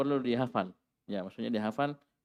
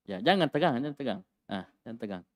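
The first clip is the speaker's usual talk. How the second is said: reassuring, fading. Real, not acted. Teacher calms a nervous student.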